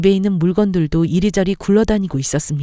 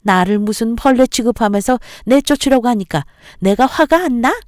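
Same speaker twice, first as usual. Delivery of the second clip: angry mother-in-law; 4 semitones higher than usual. Acted. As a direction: scold her and boil over. Mother-in-law's angry rant. (화가 치민 시어머니의 호통)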